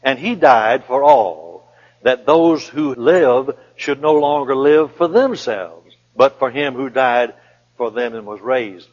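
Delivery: slow, weighted "he died" and "THEMSELVES"; changed emphasis. Shown as a demonstration. Preacher repeating the verse for listeners, slow emphatic stress. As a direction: stretch each phrase, leaning on "those who live" and "themselves". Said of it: "what is the difference in the emphasis".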